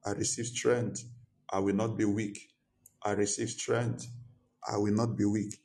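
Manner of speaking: passionate praying aloud; fervent prayer. Acted. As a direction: pray with fervour.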